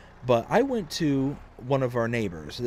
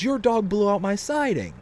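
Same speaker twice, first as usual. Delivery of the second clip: high, louder accusing yell, imitated; hammed-up angry neighbor shouting; retold hollering; 8 semitones higher, 4 dB louder than usual. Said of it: "he starts hollering and says".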